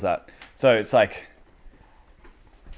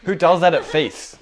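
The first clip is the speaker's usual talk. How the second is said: mock shock; 4 semitones higher, 7 dB louder, slower than usual. Acts out onlookers' shocked reaction.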